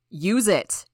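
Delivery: loud frantic yell; father screaming for the EpiPen to be used; desperate shout. A narrator's reading. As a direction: scream the order at her. Mayor threatening with the gun.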